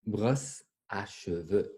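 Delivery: "Brosse à cheveux" said slowly, each word drawn out; slow word modelling. Shown as a demonstration. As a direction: stretch out "Brosse à cheveux" for learners. Teacher models new word slowly.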